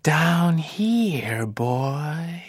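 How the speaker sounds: slow, hissing snake voice; sinister whisper. Acted. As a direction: lure him closer, slowly. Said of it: "there was a very sinister whisper".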